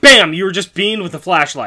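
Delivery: high, loud action call; punchy mock-dramatic announcement; playful loud interjection. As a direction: shout it like a sudden hit. Calls out blows to the Snark.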